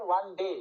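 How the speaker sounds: ডে landed with a dropped jaw; stress on ডে. Shown as a demonstration. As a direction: lean on ডে, jaw falling. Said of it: "ডে বলার সময় মুখের টোয়ালটা নিচে নামছে".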